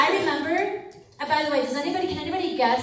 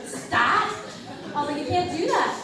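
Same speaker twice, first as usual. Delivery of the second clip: stern stop; 4 semitones higher than usual. Retold or imitated. Telling the girl off.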